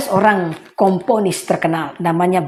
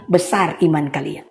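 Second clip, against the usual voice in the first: gentle praise; 3 semitones lower, 3 dB quieter, slower than usual. Retold or imitated. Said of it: "Yesus bilang".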